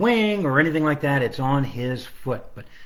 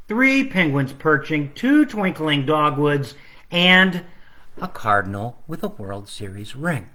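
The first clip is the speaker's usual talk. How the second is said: put-on reading to children; 2 semitones higher than usual. Author reading his Christmas book to children online.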